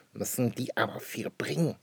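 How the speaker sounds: put-on voiceless child whisper. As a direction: breathe it in awe. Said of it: "flüstert Schnüpperle". (flüsternd, ganz ohne Stimme)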